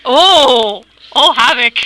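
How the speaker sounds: loud, fangirling mock squeal; excited bird voices. The other birds fawning over Havoc, loud and excited. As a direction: gush over Havoc like a fan. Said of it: "they're all like".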